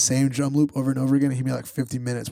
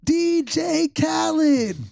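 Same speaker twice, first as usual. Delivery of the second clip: romantic; 13 semitones higher, slower than usual. Retold or imitated. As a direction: croon it like a love dedication. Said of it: "He's like".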